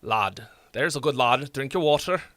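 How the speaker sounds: put-on a mild northern English accent, matey and chummy. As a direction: coax someone like a northern English bloke. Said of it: "what other English accents from the north?".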